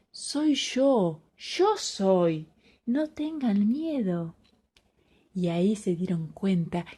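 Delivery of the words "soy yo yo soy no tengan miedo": a soft, slow reassurance; calm them, gently and slowly; reassuring Jesus. Acted. Jesus calms the frightened disciples, soft and reassuring. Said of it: "Jesús les dice".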